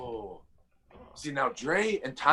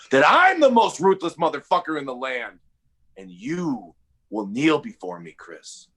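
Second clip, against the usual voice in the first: menacing. Acted. Threatening promo addressed to Chris.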